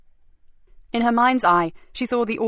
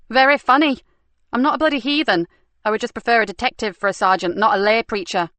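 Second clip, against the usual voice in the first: irritated retort; 3 semitones higher, 4 dB louder than usual. Acted. Nikki retorts to super's jibe.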